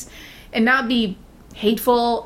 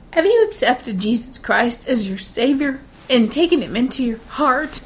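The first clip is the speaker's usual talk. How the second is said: put-on shaky nervous old lady; 3 semitones higher than usual. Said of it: "that is how she talked, real shaky and nervousy sounding".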